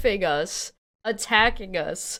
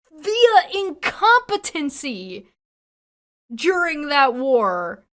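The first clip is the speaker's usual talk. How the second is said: loud, higher, slowed shouting in real outrage; furious shouting; 6 semitones higher, 5 dB louder than usual. Real, not acted. Canadian vlogger shouting back at the American clip, furious. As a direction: yell it, every word a protest.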